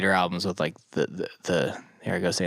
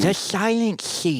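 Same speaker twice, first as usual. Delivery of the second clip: slow, high dramatic title read; dramatic trailer voice; 10 semitones higher, slower than usual. Pretend. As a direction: announce it like a movie trailer.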